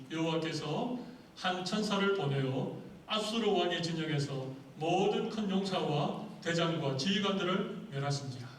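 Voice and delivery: loud, measured Bible reading; scripture reading. Acted. Preacher reads the day's passage aloud to his congregation. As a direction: proclaim the verse to the church.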